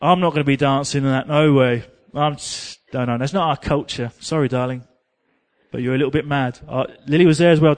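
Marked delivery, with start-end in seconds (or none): 0.0-4.8 snooty Englishman. Retold or imitated. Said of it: "me and my English friend".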